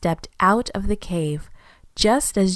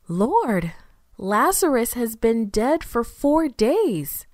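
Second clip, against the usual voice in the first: exclaiming; 4 semitones higher, slower than usual. Acted. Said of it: "Martha exclaimed".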